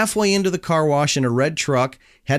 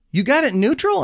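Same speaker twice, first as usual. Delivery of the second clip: doubtful question; 10 semitones higher, faster than usual. Retold or imitated. Attendant checks on the car again.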